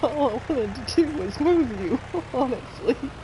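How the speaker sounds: words broken up by laughing fits; helpless laughter. Real, not acted. Explaining the hay bale mishap, laughing helplessly. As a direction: protest while cracking up. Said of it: "sorry for laughing so much".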